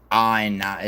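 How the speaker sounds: exaggerated Australian vowels; mock Australian accent. Shown as a demonstration. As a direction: try an Australian "oh no". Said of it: "in an Australian accent".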